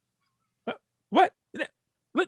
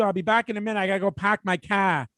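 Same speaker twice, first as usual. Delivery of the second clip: lightly imitated Boston accent; casual mock Boston accent. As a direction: drop the r's like a Bostonian. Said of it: "you can hear it in the accent".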